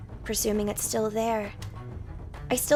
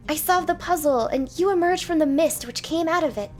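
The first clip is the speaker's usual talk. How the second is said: indignant knight; 5 semitones higher, 5 dB louder than usual. Acted. Knight explains to monster.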